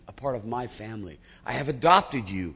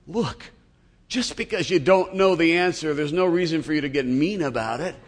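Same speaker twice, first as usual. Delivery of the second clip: hurt lion; 5 semitones higher, 4 dB louder than usual. Acted. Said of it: "and says".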